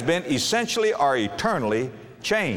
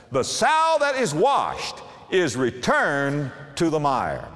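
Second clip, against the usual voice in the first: scripture reading; slower than usual. Real, not acted. Quotes scripture, slowed.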